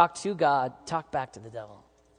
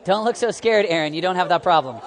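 teasing, laughing call-out; 3 semitones higher, 7 dB louder than usual. Real, not acted. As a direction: poke fun at a listener. Teasing a congregant.

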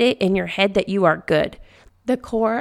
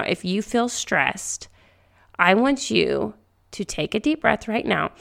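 gentle guided calming; 2 semitones lower than usual. Acted. Guides listener through calming breath.

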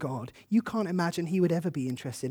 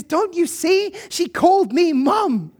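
much higher and louder, slowed, breaking with joy; laughing through tears; 11 semitones higher, 9 dB louder, slower than usual. Retold or imitated. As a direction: cry it out half laughing, half weeping. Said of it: "she's shaking and weeping and laughing".

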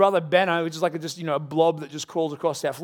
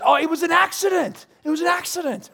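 put-on high, whiny child's plea; toddler excuse; 10 semitones higher than usual. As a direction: play the guilty three-year-old. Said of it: "And then he goes".

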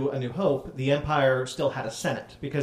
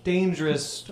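hammy senator voice, slightly raised; fake politician voice; 4 semitones higher, slower than usual. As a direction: ham it up like a scheming senator. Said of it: "his fake politician voice".

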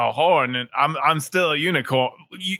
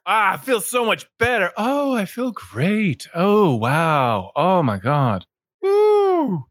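higher, delighted cries of relief; joyful relief; 3 semitones higher, slower than usual. Acted. Healed unicorn thanking the healer with delighted whoops. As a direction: burst out in happy relief, ending in a high whoop.

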